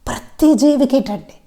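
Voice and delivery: ప్రతి drawn out and weighted, slow; deliberate, slow insistence on ప్రతి జీవికి; slow stress on ప్రతి. Shown as a demonstration. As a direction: slowly hammer ప్రతి. Insisting again, slower.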